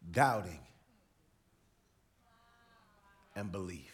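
a hint of tender Jesus; Jesus, intimate. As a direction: coax him gently. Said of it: "he said to Thomas".

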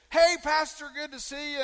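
high-pitched, hearty hello with a loud start; imitating an excitable guy; high-energy greeting. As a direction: greet the pastor full of energy. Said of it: "he's always a high energy guy".

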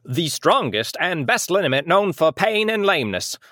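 lightly voiced vintage announcer; old school announcer. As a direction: read it like an old mid-Atlantic ad. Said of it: "that old school announcer voice".

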